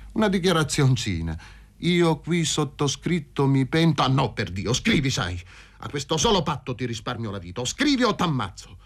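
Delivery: cold scornful dictation at gunpoint; grim vengeful man. Acted. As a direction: press him to write, menacing. (dettatura minacciosa e sprezzante)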